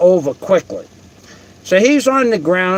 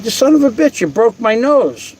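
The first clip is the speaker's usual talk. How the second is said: higher, not really angry, exclaiming; retold exclamation; 4 semitones higher than usual. The teller, retelling how he yelled at the man who broke his nose, exclaims high without real anger. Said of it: "I wasn't even mad".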